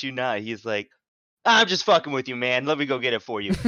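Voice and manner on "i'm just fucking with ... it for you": put-on casual American accent, suddenly loud and confident; perfect American accent. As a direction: drop into a breezy American accent. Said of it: "In a perfect American accent".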